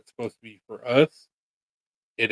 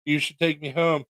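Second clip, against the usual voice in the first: cat voice; 5 semitones higher, 4 dB quieter than usual. Retold or imitated. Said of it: "You were like".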